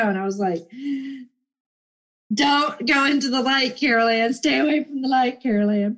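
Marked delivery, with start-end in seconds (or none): 2.3-6.0 lightly voiced eerie pleading, a hint of the film; half-playful imitation of the mother calling her child; Poltergeist movie quote. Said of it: "Poltergeist, right?".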